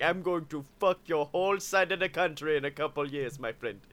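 put-on soft foreign-accented villain; Mister Freeze. Cabbie as villain threatening passengers, mock foreign accent. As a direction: imitate a villain in disguise with a thick foreign accent. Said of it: "He was actually Mister Freeze".

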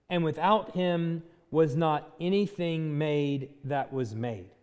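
slow, deliberate reading of John 1; scripture reading. Acted. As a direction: let each clause land on its own.

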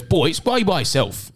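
slow, high-pitched teacher call; mock yelling teacher. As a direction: imitate a teacher calling out students. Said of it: "he was, like, yelling".

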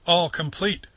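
high, loud triumphant boast. A narrator's reading. Toad showing off his new cart, triumphant and loud. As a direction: crow it like a proud show-off. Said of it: "said the Toad triumphantly".

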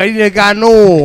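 loud, pitch pushed up; imitating a loud drunk ordering; retold drunken demand. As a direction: holler the order like a tipsy customer. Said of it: "I had a couple too many drinks".

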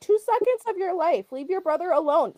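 scolding parent. Real, not acted. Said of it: "You sound like I'm talking to my kids".

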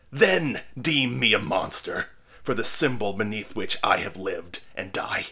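dying minister denouncing the onlookers; impassioned cry. A narrator's reading. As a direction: preach his last accusation with full force. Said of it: "cried he".

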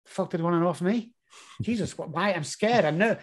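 a quiet, shrunken mock of stage fright; nervous muttering. Speaker recalls waiting in the wings before a show, softly and nervously. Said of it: "I'm at the side going".

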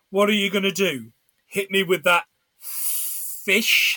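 fish stretched long and slow; mock Alan Rickman drawl on fish; drawn-out fish. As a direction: drag out the word fish. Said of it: "the way he kind of prolongs the word fish".

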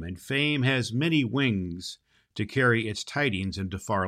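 measured storybook reading, lingering on key words; story narration. Acted. Santa reading a chapter to children, gentle storybook narration. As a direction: read it like a bedtime tale to the kids.

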